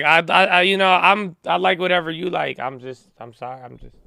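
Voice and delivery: high, timid, scared, halting stammer. Imitating a guest who is scared to talk: imitating someone scared to talk. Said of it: "she's like".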